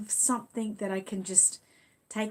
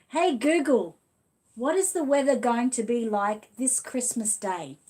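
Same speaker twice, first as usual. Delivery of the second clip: repeating to Google; 2 semitones higher, 5 dB louder than usual. Real, not acted. Retrying after Google ignored her, loud deliberate command. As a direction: say it again, loud and deliberate for the machine. She's not talking to me.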